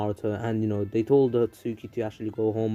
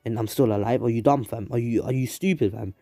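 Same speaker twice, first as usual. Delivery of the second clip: snapped at. Acted. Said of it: "has snapped and is like".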